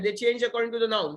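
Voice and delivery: usual speaking voice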